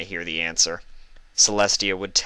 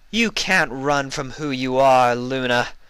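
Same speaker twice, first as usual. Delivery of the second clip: higher, louder mocking villain voice; taunting; 6 semitones higher, 4 dB louder than usual. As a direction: taunt your reflection with dark glee. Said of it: "she taunted".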